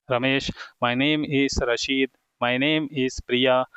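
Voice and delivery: slow model sentences; slow dictation. Shown as a demonstration. Teacher modelling names for students, slow and deliberate. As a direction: spell it out slowly for beginners.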